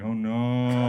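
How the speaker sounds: loud, drawn-out inner cry; inner dismay. Acted. Comic student panicking inwardly over the drawing, dismayed. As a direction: wail it as a silent thought blurted out. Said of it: "but in my head, I was like".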